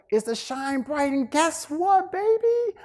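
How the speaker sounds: very high mom voice, building to a loud finish; preaching mama. Retold or imitated. Voicing mother's advice, building.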